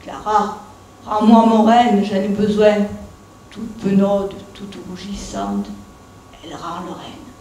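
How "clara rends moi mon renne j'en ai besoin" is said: louder call from the back of the workshop; a mildly stern call across the room. Acted. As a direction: raise the voice to get the reindeer back. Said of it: "et crie".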